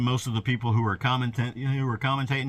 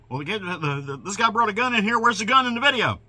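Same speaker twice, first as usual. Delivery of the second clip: mocking; 9 semitones higher, 4 dB louder than usual. Mocking conspiracy commenters.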